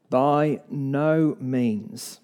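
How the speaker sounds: slow, word by word, weight on "no"; emphatic answer. Acted. Paul answering the sinning question, slow and firm. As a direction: lean on "no" in "By no means", slowly. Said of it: "Paul is emphatic".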